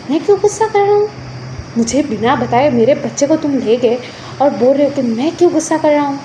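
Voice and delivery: indignant comeback with mild heat; angry retort. Acted. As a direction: throw the question back, annoyed. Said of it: "आप ऐसा क्यों गुस्सा कर रहे हो". (चिढ़कर पलटकर जवाब)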